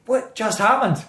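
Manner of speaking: high-pitched, laughing disbelief; amused bafflement. Retold or imitated. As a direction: act out being baffled, on the edge of laughter. Retelling his bafflement, amused.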